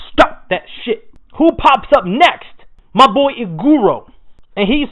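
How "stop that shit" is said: breathy half-whispered stop; a whispered mock command; retold Kanroji line. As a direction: hiss it out like a quick warning. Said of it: "and is like".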